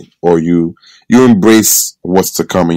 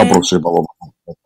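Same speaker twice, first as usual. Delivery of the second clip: speaking in tongues; faster than usual. Pretend. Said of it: "I'm speaking in tongues".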